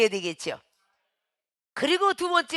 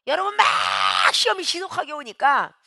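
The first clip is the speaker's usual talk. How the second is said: crying out. Real, not acted. Preacher crying out to congregation.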